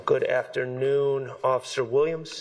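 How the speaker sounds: muffled behind a face mask; through face mask. Real, not acted. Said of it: "Can you hear me okay with this mask".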